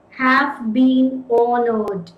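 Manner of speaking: "Have been honored" drawn out very slowly; slow dictation. Shown as a demonstration. Teacher repeating the phrase while writing. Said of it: "let us take another case".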